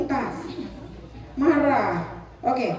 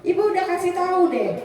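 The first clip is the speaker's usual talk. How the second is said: higher-pitched nagging parent, lightly acted; acted blaming; 4 semitones higher than usual. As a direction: play at scolding a child for being at fault. (pura-pura menyalahkan anak)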